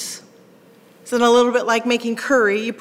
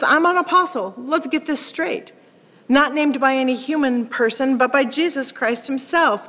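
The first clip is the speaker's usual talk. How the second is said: worked-up Paul; 2 semitones higher than usual. Acted. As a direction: tell them off as a stung Paul. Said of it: "Paul is worked up and he's telling them off".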